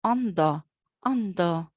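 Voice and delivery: "under" ending in a schwa, no R; dropped final R. Shown as a demonstration. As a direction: say "under" as "un-duh". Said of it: "without pronouncing this".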